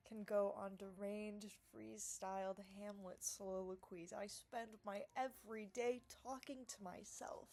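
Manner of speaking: a secret whisper to the camera; whispered aside. Real, not acted. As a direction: whisper it like a confession. Confiding aside.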